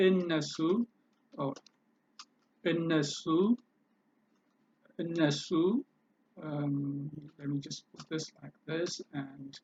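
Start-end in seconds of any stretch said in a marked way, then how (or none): 0.1-0.6 እነሱ as e-ne-su, with no r; pronunciation demo. Shown as a demonstration. Teacher showing how you pronounce it, እነሱ demonstrated without r. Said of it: "How do you pronounce". 2.7-5.5 እነሱ as e-ne-su, with no r; pronunciation demo. Shown as a demonstration. Teacher showing how you pronounce it, እነሱ demonstrated without r. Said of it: "How do you pronounce".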